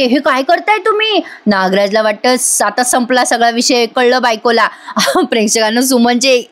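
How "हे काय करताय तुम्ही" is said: higher-pitched mock outcry, not much louder; wife shocked to find husband in the kitchen, mock yelling; retold loud cry. Wife catches husband at the stove, a mild mock yell. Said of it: "Suman मोठ्याने ओरडते".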